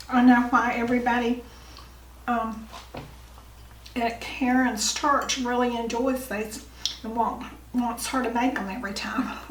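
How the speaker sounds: talking with a mouth full of food. Real, not acted. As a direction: speak through a bite of food. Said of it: "It's kinda hard to talk when you got your mouth full".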